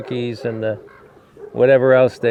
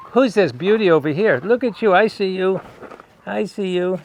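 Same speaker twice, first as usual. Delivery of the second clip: cooing to a dog; 6 semitones higher than usual. Real, not acted. Greeting the new dog.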